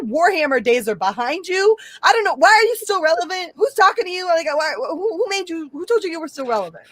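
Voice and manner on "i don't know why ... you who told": much higher, incredulous; incredulous mockery. Real, not acted. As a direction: scoff at him in disbelief. Mocking Don Cheadle.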